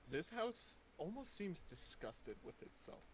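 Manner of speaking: dramatic scene-setting narration; game master narration. A narrator's reading. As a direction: set the gloomy scene. GM scene description.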